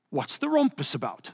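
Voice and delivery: lightly put-on English accent. C S Lewis walks in on the debate, mock English accent. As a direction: imitate an Englishman with a hint of the accent. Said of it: "That's my English accent".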